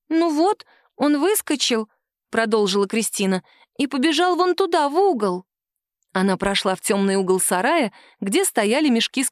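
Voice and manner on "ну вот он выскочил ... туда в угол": put-on high, eager child's voice; little girl defending her doll. A daughter defends her doll to her mother, childlike and high. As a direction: plead like a stubborn little girl.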